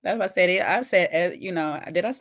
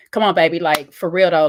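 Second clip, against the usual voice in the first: louder, firm and no-nonsense; stern; 6 dB louder than usual. Shown as a demonstration. Showing viewers how stern talk comes off, louder and firm. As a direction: drop the sweetness, press hard. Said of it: "using my words very stern".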